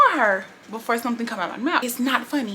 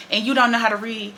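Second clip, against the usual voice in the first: louder, needling in the ear; nagging coworker; 4 dB louder than usual. Retold or imitated. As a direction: nag right in her ear. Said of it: "She in my ear just like this".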